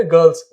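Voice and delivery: "गर्ल्स" said guhls, no R; non-rhotic "गर्ल्स"; silent R. Shown as a demonstration. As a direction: drop the R in "गर्ल्स". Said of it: "आर silent हो जाए".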